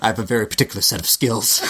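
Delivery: quick, half-successful action-hero impression; Liam Neeson. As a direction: have a go at a movie tough guy's threat, not quite landing it. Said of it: "it's really hard to do a Liam Neeson impression".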